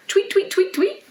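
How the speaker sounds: very high, chirpy tweets; bird tweets. Shown as a demonstration. Teacher showing kids how birds tweet, very high chirps. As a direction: tweet like a little bird, way up top. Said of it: "let's tweet like a bird".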